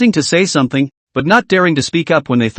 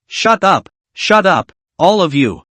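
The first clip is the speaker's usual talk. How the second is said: sharp, raised shout to silence a crowd; angry uncle yells for silence; shouting shut up; 3 semitones higher, slower than usual. Acted. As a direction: bark the order over the noise. Uncle silences the panicking passengers.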